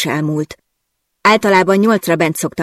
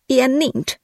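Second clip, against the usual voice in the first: much higher, frustrated outburst; fuming; 8 semitones higher than usual. Acted. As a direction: rage at the situation. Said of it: "dühöngtem". („Ilyen nincs” dühösen, magasan kitörve)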